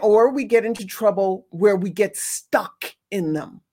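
normal talking voice

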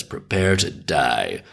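a hammed-up threat from a hitman; menacing hitman. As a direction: hitman threatens the dancer in an alley, slow and low. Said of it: "And the hitman says".

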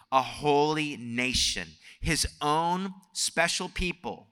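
slow, measured scripture reading. Acted. Preacher reading First Peter to the congregation, slow and measured. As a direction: read it out deliberately, leaving weight on each phrase.

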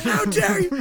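high, loud retold roar; wrathful Jesus shout, high and loud; mock Jesus yell. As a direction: roar it like an angry Jesus at the kids. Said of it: "screaming at these".

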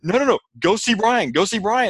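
high, panicked imitated scream; wife screaming at the injured sailor, high and panicked; retold screaming. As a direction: shriek it like a frightened wife. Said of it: "she's just screaming".

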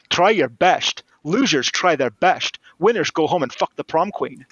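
put-on a lightly done Scottish Connery accent, slowing on the second line; Sean Connery accent. Connery scolding Goodspeed, a lightly imitated Scottish Connery accent. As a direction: lean into a Scottish Connery impression, unhurried and scornful. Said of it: "in his most Sean Connery accent".

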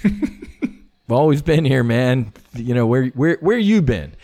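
slow, lightly voiced easygoing God; a hint of a relaxed, amused God answering, slowly; mild God voice, unhurried and casual; laid-back God. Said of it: "He's like".

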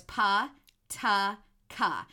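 pa, ta, ka said loud and separate; each syllable pa, ta, ka spoken slowly and clearly. Shown as a demonstration. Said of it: "explain to the listeners what we're doing".

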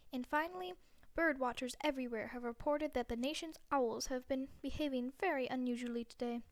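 lightly put-on evening news read; newscaster voice. TV anchor reading the last news story, mock news voice.

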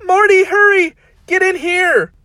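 very high, loud urgent call; urgent shout. Acted. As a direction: yell him in quickly. Summer calls out urgently.

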